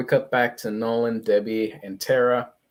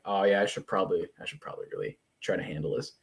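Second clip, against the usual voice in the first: quick, fading mutter; reluctant mumble; 4 semitones lower, 6 dB quieter, much faster than usual. Acted. Father admitting he should step in, mumbled reluctantly. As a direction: trail off softly while half agreeing. Voices Nolan half-heartedly agreeing.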